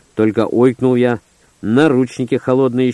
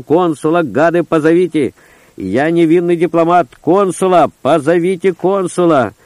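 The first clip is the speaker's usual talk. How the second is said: wild yell; 5 semitones higher than usual. Acted. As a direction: bellow it with full lungs. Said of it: "я завопил диким голосом".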